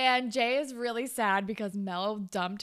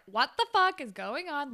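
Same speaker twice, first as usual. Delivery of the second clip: higher-pitched, lightly acted outrage; mock indignation; 5 semitones higher than usual. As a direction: demand an explanation, half in play. Acting an annoyed friend's demand.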